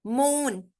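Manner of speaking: मून with the "oo" held long. Shown as a demonstration. Teacher contrasts it with book, मून with long "oo". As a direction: draw out the vowel in मून. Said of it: "यानी long".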